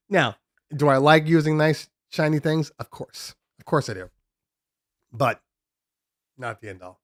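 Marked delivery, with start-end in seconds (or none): 2.8-3.3 whispered. Real, not acted. Aside answering own question.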